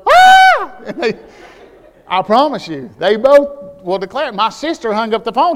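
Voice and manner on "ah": put-on loud high scream of a child; a kid screaming as the belt lands; child's scream. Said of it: "hear something go".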